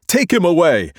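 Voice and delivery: loud mob shout; crowd shouting. Acted. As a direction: demand it as the mob. Crowd crying out.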